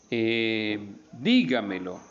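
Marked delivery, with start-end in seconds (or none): 1.1-2.0 "dígamelo" with the stress on DÍ; stress on first syllable. Shown as a demonstration. Teacher giving an example word, stress on DÍ in "dígamelo".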